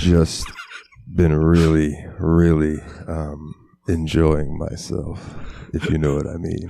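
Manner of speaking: sexy voice. Pretend. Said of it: "you have to do it in the sexy voice".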